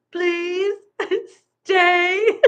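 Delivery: high, long-held sung words mimicking a cat; cat's meow tone. Owner imitating Mittens's meow as words, high drawn-out singing. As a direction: sing it high like a meowing cat, breaking into laughter. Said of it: "meows in a tone that sounds like".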